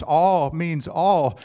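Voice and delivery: "All means all" slow, both ALL pressed hard; stress on ALL. Shown as a demonstration. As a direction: lean on each all, slowly. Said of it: "tremendous emphasis on the word all".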